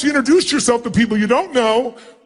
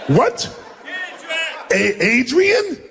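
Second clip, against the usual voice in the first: annoyed; 7 semitones higher, much slower than usual. Shown as a demonstration. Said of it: "be in a state where you really think it's a waste of your time".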